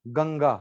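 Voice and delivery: गंगा said plainly as written, ga-nga; गंगा as read. Shown as a demonstration. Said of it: "ये क्या लिखा है मैंने". (गंगा सामान्य उच्चारण में)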